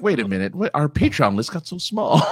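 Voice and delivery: high mock-dismayed cartoon alien; mock alarm with a cartoon twang; Marvin the Martian. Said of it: "you sound like Marvin the Martian".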